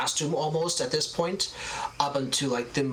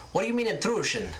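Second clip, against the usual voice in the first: put-on high old Italian shopkeeper, demanding answers; a prickly elderly landlady type firing questions; suspicious old seamstress; 8 semitones higher, much faster than usual. Gilda questions the visitors.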